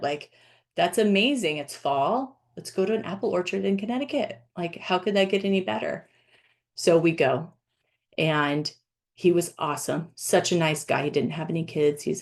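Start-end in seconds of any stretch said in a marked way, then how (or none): 0.7-6.1 put-on quick, eager kid-like gush; excited like a little kid. To a fellow dad about the orchard, eager little-kid excitement. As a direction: rattle it off like a thrilled child. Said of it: "I'm like that little kid".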